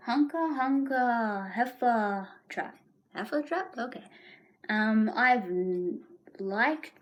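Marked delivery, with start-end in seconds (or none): 0.1-2.8 bouncy Tigger show-off; Tigger boast. Acted. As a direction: announce it like a proud Tigger.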